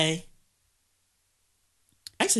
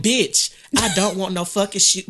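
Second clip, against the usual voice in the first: raised mock cussing; 3 semitones higher, 4 dB louder than usual. Mama going off on the seller, mock angry. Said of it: "My mama be going off".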